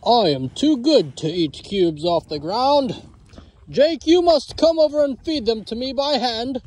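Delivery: voicing the cow. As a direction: speak as the big fussy bull, only lightly changed. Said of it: "why do they both have that kind of accent".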